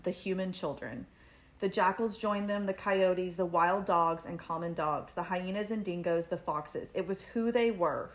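measured audiobook-style reading, softening at sentence ends; story narration. A narrator's reading. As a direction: read a tense book passage aloud. Reads book passage aloud.

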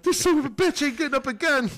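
high-pitched cartoon voice; high squeaky mock voice.

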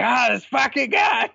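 high mock-exasperated grumble; a hammed-up boss cursing under pressure; imitating exasperated boss. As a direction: toss it off like the fed-up VP. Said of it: "he's like".

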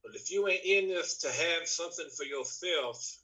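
wrestling-promo character voice; put-on wrestler voice. Guest pressing host for his own pick, in wrestler voice. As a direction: preach it at a rival like a wrestler, then drop off. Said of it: "in a voice that I like to do".

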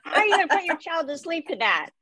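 squeaky high disbelief; shocked, as if it's absurd; incredulous. Real, not acted. Outraged at the lullaby lyrics.

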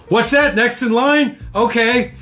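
high, fake-oblivious question; faking innocence to cut the line; feigned innocence. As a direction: pretend you didn't hear anyone.

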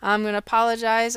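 hoarse from a cold; croaky, like a frog in the throat. Real, not acted. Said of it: "I swallowed a frog".

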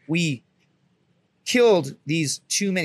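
slow, halting confession with a long pause; reluctant admission. Retold or imitated. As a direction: make yourself say it, word by word. Acts out reluctant confession to gunny.

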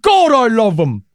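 loud, high-pitched hammed-up adoration; over-the-top mock patriotic cry; mock royal fervor. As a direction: proclaim it like an overexcited loyal subject. Mock toast to cartoon royalty.

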